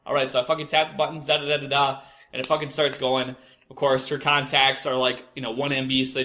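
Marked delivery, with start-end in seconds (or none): 0.1-0.3 raised high, mock-giving-in okay; high placating okay. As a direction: cave in with a high reluctant okay. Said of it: "I'm like".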